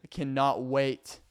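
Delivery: slow, drawn-out exaggerated contempt; mock disdain for Arkansas, drawn out. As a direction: sneer at the state, slow and overdone. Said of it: "I'm kidding".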